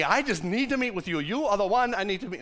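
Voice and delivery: badly faked English accent; wobbly mock-English accent; attempted English accent. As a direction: try an English accent and miss, landing a bit Jamaican. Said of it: "it's not an English accent".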